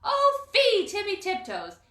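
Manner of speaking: high, loud call into a hole; loud, high "fie" call. A narrator's reading. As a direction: call him out, scolding. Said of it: "called down".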